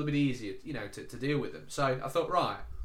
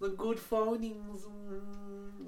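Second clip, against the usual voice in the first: imitated Indian accent; 6 semitones higher, 5 dB quieter, much slower than usual. Agent voiced in phone story.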